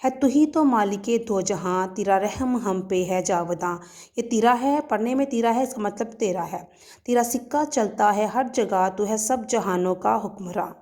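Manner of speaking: measured, rhythmic reading of the whole poem; poem recitation. Shown as a demonstration. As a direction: recite the poem to the children line by line. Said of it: "میں پوری نظم آپ کے سامنے پڑھوں گی".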